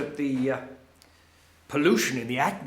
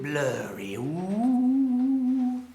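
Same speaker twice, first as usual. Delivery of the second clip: drawn-out woozy "ooh", sliding higher; 7 semitones higher, much slower than usual. Acted. Old student telling the class how exam time blurs, woozy. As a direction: stretch out a rising, dizzy ooh. Acts out things getting blurry.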